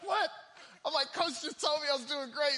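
loud, high-pitched mock disbelief; incredulous outburst. Benched player protesting what coach told him, incredulous. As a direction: protest in comic shock, voice shooting up. Acting shocked reaction to being benched.

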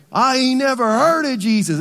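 hammed-up country yokel voice; backwoods drawl. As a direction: play a rough backwoods fisherman, loud and high. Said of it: "they were backwoods".

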